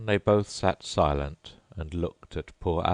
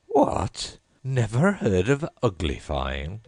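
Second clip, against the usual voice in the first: surprised squawk, much higher; exclaimed; 5 semitones higher, 4 dB louder, slower than usual. A narrator's reading. Gryphon astonished at Alice, high and loud. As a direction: shriek it in disbelief. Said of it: "it exclaimed".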